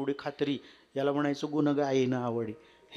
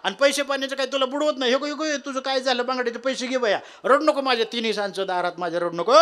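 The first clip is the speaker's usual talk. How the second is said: put-on frightened old woman; 9 semitones higher, 6 dB louder than usual. Frightened old woman consoles crier.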